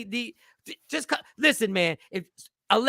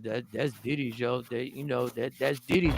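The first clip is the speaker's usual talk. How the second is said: imitating a rapper; 10 semitones lower, 7 dB quieter than usual. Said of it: "He said".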